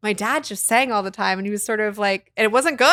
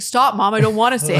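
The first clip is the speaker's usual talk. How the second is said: put-on kid's protest; 8 dB louder than usual. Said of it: "they're like".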